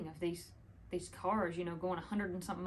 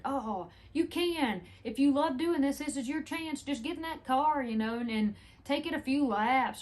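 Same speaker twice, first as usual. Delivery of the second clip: higher-pitched, eager urging of a retold driver; earnest insistence; 5 semitones higher, 4 dB louder than usual. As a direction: imitate someone pressing a generous offer in full earnest. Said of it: "he was just one hundred percent".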